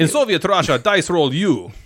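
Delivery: a light mock Russian accent, rolled and heavy. Better light Russian accent. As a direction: friend takes a turn at the Russian joke line. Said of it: "I guess that's better than mine".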